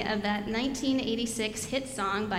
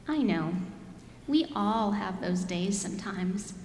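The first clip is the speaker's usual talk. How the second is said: put-on lively storybook reading to kids; reading to children. Pastor reading a picture book to the children, lively. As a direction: read it like a picture book to little ones.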